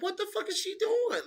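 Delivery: very high put-on baffled voice; imitating Casey. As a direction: play Casey confused by her opponent. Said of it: "Casey O'Neill looked at her like".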